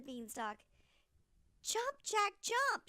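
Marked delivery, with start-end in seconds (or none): 1.6-2.9 high, loud urgent holler; mother shouting to her son to jump. Acted. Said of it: "she hollered".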